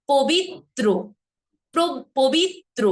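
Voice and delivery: পবিত্র split as "pobit-tro"; দ্বিগুণ ত. Shown as a demonstration. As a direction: hold and double the t in পবিত্র. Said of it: "ত এর উচ্চারণটা একবার হয়েছে". ("পবিত্র" বলো পবিত্-ত্র)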